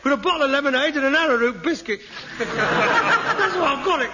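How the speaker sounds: loud, high accusing rant; angry accusing. Acted. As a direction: shout the blame at him. Son blames father, rising row.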